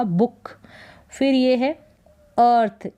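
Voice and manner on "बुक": "बुक" with a short oo; short vowel. Shown as a demonstration. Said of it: "इसका उच्चारण short हो रहा है". (बुक, छोटे उ के साथ)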